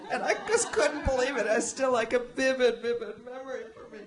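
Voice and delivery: laughing. Real, not acted. Recalling the boy in short pants, laughing loudly in disbelief.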